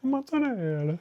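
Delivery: loud, hammy Jersey Italian workers; Jersey Italian tough guys. Acted. Two grocery workers bonding, loud hammy Jersey Italian accent. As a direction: ham it up as gabagool-loving tough guys. Acting out supermarket Jersey skit.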